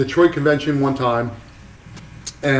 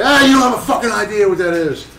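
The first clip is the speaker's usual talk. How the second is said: higher, dismissive put-on voice; imitating Mike Malone; 8 semitones higher than usual. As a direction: brush the kid off knowingly. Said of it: "I'm like".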